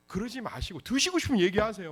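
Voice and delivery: usual speaking voice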